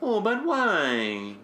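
high, slow whine; whiny voice. Retold or imitated. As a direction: drag it out, whining. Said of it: "He had this whiny voice thing".

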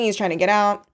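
ordinary delivery, nothing marked

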